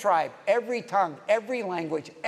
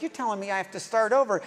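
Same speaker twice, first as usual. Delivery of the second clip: quick, mildly exasperated retort; frustrated Nicodemus; faster than usual. Acted. Nicodemus told to start over, mildly frustrated. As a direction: imitate a touch of frustration, hurried. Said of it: "he's just frustrated 'cause it's like".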